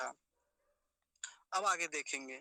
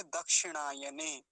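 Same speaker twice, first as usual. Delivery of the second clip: model pronunciation; 2 semitones lower than usual. Shown as a demonstration. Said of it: "यहाँ क्या लिखेंगे".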